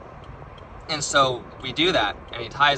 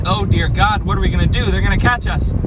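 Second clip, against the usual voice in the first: loud, high-pitched mock panic; freaking out; 5 semitones higher, 8 dB louder than usual. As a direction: panic as if about to be caught. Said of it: "I'm freaking out".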